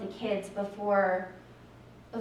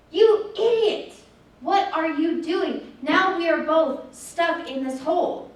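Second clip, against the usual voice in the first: slow, loud, high-pitched outburst; exasperated scolding; 4 semitones higher, 5 dB louder, slower than usual. Retold or imitated. Boy berates the friend who jumped into the hole, slow exasperated shout. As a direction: let him have it for jumping in.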